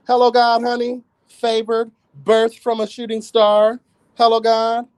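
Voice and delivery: high theatrical praise; high campy diva. Pretend. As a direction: play the star born from a shooting star. Continued diva performance.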